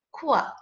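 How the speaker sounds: "Quack" cut down to a single "kwa"; one falling "kwa" for "Quack"; Q sound demo. Shown as a demonstration. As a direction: sound out "Quack" as a short "kwa", without the final k. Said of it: "we will make the quack sound".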